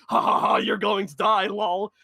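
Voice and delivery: loud taunting fake laugh; mocking witch laugh. Old witches taunting the player, loud jeering fake laugh. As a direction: jeer like a gloating hag. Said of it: "the old bitches that tell you".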